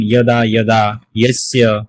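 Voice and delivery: ইয়দা, ইয়স্য begun with a y glide, not j; y-sound demonstration. Shown as a demonstration. Teacher gives students examples, ইয়দা with a clear y sound. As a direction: model ইয়দা with initial "ya". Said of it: "ইয়া উচ্চারণ করতে হবে".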